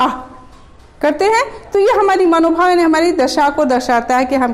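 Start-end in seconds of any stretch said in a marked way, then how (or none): 0.0-0.1 happy aah with a laugh. Shown as a demonstration. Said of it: "खुशी की बात सुनते हैं".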